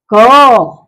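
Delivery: क said alone, loudly and held; isolated, emphatic क; letter sound demo. Shown as a demonstration. Teacher shows pupils how to read it, emphatic क. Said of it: "इसलिए इसको पढ़ेंगे".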